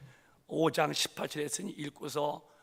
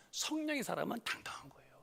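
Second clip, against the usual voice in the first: intimate unvoiced whisper; 5 semitones higher, 6 dB quieter than usual. Real, not acted. Preacher whispers the point to the congregation. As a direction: lean in and whisper it.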